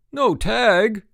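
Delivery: loud, high incredulous echo; outraged cry. A narrator's reading. Frank disputing Mike's ruling, crying out. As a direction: fling it back in outrage. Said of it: "cried Frank".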